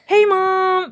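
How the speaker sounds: high, eager Hey Mom; bright greeting. Retold or imitated. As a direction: greet her brightly, trying to be positive. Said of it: "I'll be like".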